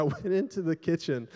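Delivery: ordinary talk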